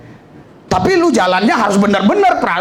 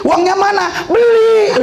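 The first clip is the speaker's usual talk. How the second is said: pastor's wife on phone; 4 semitones higher than usual. Retold or imitated. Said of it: "Ibu gembala kemarin telepon".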